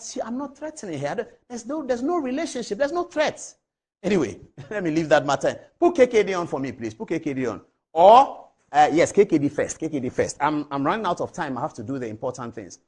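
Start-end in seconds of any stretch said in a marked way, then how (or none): 5.8-7.6 raised voice calling to the studio crew; loud order to the studio crew. Real, not acted. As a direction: call it out loud to the booth.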